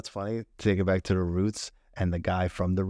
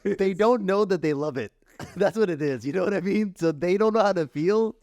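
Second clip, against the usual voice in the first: excited; 9 semitones higher, 4 dB louder than usual. Real, not acted. Lively laughing point.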